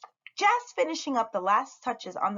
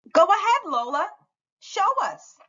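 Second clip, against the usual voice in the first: eager encouragement; 12 semitones higher, 6 dB louder than usual. Acted. Teacher encouraging loudly.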